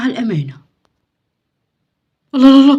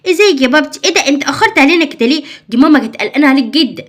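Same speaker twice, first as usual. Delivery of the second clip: excited greeting; 3 semitones higher, 5 dB louder than usual. Acted. Kids excitedly greet father.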